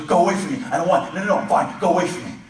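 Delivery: high, loud, frantic yelling; shouting go away. Retold or imitated. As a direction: shove him off with your voice. Son yells again, laughing edge.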